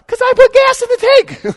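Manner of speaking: high, loud exasperated retort; husband fed up over an empty tank. Retold or imitated. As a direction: shoot back in disbelief. Answering wife's excuse.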